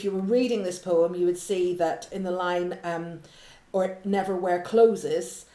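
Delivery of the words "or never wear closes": slow quote. Shown as a demonstration. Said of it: "he's actually written closes".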